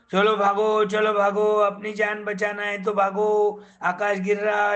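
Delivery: half-sung warning to the jungle; frightened animals chanting a warning to run; loud, sing-song shout. Acted. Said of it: "जोर जोर से बोल रहे हैं".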